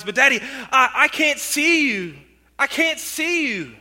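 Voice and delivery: put-on a little girl pleading, scared; mild scared girl. Frightened girl at burning window.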